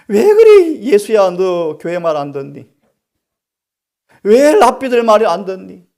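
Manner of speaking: loud, high-pitched reproach; acted scolding. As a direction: scold a disobedient younger brother. Joseph's sons scolding young Jesus.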